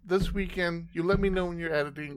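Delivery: talking while thumping the desk; banging the desk. Real, not acted. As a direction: pound the desk as you speak. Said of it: "Will you stop hitting the desk?".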